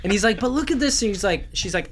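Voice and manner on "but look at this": high-pitched mock pleading husband; retold pleading. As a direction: plead like a husband showing off his find. Husband pleading with scolding wife.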